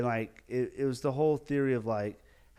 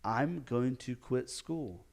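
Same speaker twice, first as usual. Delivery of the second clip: panicked despair; much slower than usual. Retold or imitated. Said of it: "And I was panicking".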